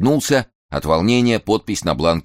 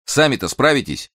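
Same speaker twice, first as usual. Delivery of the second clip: doubtful; 10 semitones higher than usual. Acted. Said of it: "недоверчиво посмотрел".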